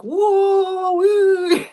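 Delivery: high, drawn-out kitten whoop; wild kitten. Acted. Kiki reacts to the judging cats, gleeful whoop. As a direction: squeal it like a carefree kitten. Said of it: "And Kiki's just like".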